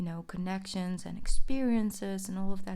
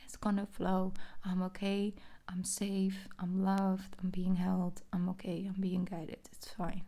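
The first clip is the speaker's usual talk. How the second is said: calm affirmation. Shown as a demonstration. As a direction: say it gently to yourself. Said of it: "Just say".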